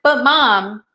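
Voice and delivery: a hint of a pleading child asking mom for socks; imitating her kid. Son to mom in a store, lightly mimicked whining. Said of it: "he was like".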